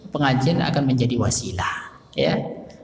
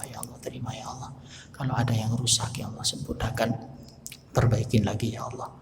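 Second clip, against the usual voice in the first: pleading prayer; 4 dB quieter than usual. Shown as a demonstration. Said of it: "Nangis ya".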